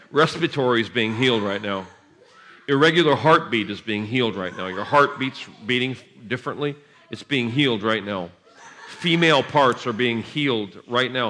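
steady preaching decree; healing declaration. Acted. Preacher declaring healings over the crowd, steady.

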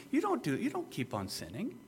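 gentle, softly put reassurance; reassuring statement. Shown as a demonstration. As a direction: state it softly as a settled fact, voice lifted. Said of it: "He's not finger wagging to you".

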